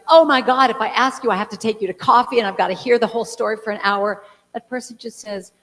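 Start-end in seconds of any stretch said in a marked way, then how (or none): 0.1-4.2 loud mock dread that eases; dreading obligation. A friend dreading the whole story, mock loud dread. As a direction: blurt it like a trapped acquaintance. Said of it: "the person feeling like".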